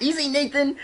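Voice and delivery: high, loud teasing call; imitating Dan. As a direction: call it out like a playful director. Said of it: "Dan's like".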